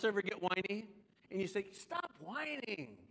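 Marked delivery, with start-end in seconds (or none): 1.7-3.0 soft, drawn-out scold; mock scolding. Someone at home answering a whiner, slow hushed scolding. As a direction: tell off a whiner slowly, under full voice.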